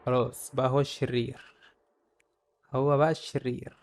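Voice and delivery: quiet resignation; resigned mutter. Real, not acted. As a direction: let it sink in quietly. Resigned mutter after loss.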